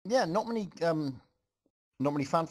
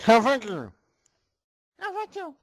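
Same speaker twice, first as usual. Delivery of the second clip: loud, high mock battle cry, climbing higher; pirate battle cry; 11 semitones higher, 8 dB louder than usual. Reader hams up Pip charging with his sword, loud high battle cry.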